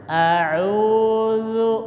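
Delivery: "A'udzu" with dz, not j or z; careful a'udzu. Shown as a demonstration. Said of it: "Jangan dibaca jim". ("A'udzu" dengan dz lembut)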